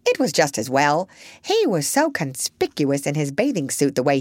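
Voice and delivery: put-on chatty old parrot, prim and knowing. Parrot answers.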